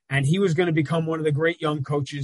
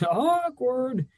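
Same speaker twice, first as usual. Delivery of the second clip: laughing; 10 semitones higher than usual. Real, not acted. Laughing at Brooklyn reunion.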